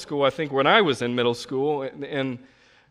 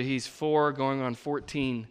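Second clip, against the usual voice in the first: normal talking voice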